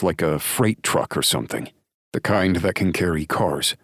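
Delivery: a lightly voiced lawman, fast and clipped to the point; the deputy briefing a friend in a hurry; lightly voiced Drake, brisk and steady; Drake's voice, urgent report. Drake reports his findings.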